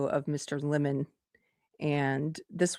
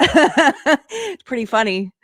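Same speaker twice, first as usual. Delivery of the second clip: laughing; 9 semitones higher, 7 dB louder, slower than usual. Real, not acted. Laughs at clip of confrontation.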